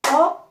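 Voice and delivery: "enveloppe" broken into en, ve, loppe with long pauses; loud, high "en", then each syllable of "enveloppe" alone. Shown as a demonstration. Teacher counting syllables for children, syllable by syllable. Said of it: "Vous allez m'écouter et me regarder".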